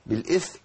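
distinct th ending بالإثم; clear tha. Shown as a demonstration. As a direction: say بالإثم as bil-ithm, tongue between teeth. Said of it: "إبدال الثاء بسين".

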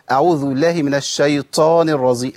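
chanted mock mistake, airy ط in الشيطان; mistaken aspirated ط. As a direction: imitate a reciter puffing the ط of الشيطان. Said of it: "زي اللي بيقول".

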